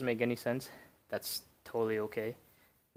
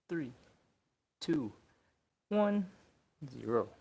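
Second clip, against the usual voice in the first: strained countdown; 4 semitones higher, 3 dB quieter than usual. Real, not acted. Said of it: "I'm exhausted".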